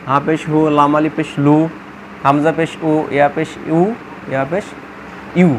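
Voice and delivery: teacher spelling out letter, "পেশ", then the u syllable as in "বা পেশ বু"; measured drill, landing on "উ" sounds; short-u pronunciation drill. Shown as a demonstration. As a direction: recite evenly, slightly low, each pair ending in a u sound like "উ", "বু", "তু". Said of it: "উর মতো উচ্চারণ হবে".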